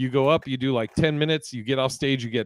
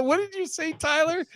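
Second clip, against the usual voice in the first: retold question. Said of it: "And he go".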